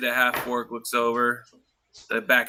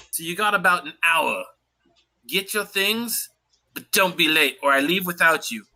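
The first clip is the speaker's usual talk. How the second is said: captain's orders. Acted.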